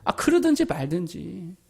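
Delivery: dismissive murmur. Acted. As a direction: let the insults slide right past. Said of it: "이게 뭐라 그랬다고요?".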